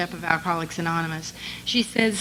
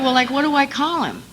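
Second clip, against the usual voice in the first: laughing question; 5 semitones higher, 4 dB louder than usual. Retold or imitated. Asking sponsor, laughing at herself.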